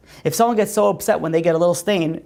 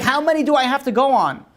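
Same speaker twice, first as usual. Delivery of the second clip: higher, fed-up complaint; a weary dater complaining about endless dates; exasperated single; 8 semitones higher than usual. Retold or imitated. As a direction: sigh it out in frustration. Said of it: "be like".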